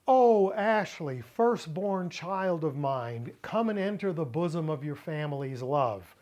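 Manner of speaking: mock-grand "Oh, Ashley", then easing off; emphatic address. Shown as a demonstration. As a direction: address your daughter like a solemn proclamation. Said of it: "But if I say".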